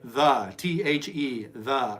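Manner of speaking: deliberately spelled letter by letter; spelling it out. Shown as a demonstration. Teacher showing how to spell a word out to yourself. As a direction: sound out the word slowly like a beginner. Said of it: "you're spelling it out to yourself".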